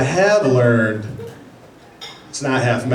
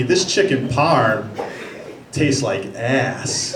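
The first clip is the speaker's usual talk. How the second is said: buddy's disgusted verdict; 2 semitones lower, much slower than usual. Retold or imitated. Buddy complaining over his sandwich, slow disgusted. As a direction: drag out the disgust. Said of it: "he says to me".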